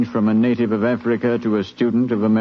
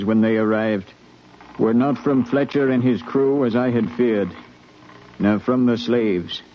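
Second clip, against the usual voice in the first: calm, measured retelling of the voyage; a captain looking back on the crossing; story narration. A narrator's reading. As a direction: tell it like a ship's log read aloud. Captain narrates rising dread.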